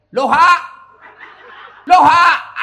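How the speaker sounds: high, explosive yelled greeting; comic shouting. Retold or imitated. Villager told to turn it around shouts hello backwards, shouting. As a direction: blast the backwards hello down the phone. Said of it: "Teriak lagi".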